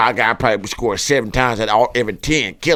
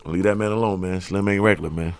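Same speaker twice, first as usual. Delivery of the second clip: hushed warning whisper; voiceless whisper of caution; 5 semitones lower, 6 dB quieter than usual. Real, not acted. Whispered advice.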